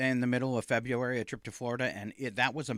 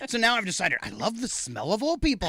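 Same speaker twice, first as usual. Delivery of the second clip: laughing; 7 semitones higher, 3 dB louder than usual. Retold or imitated. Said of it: "I was like".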